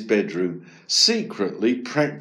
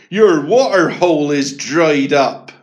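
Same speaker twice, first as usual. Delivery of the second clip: loud, higher announcing hippo voice; hippo's message; 4 semitones higher, 9 dB louder than usual. A narrator's reading.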